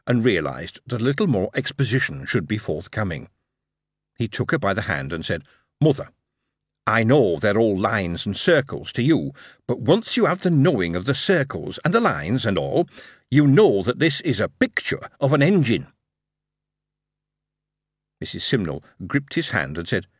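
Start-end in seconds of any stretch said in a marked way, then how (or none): 5.8-15.9 put-on earnest young lad. Dick explaining gently.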